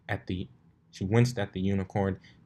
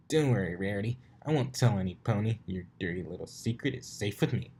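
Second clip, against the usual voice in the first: smug tease. Acted. Rainbow teasing.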